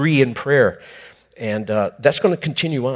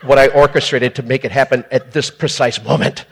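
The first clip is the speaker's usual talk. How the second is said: mock condescending God; 6 dB louder than usual. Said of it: "You go".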